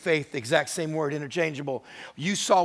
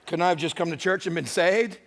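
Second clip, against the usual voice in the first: laughing plea; 3 semitones higher, 4 dB louder than usual. Acted. Woman voiced, laughing.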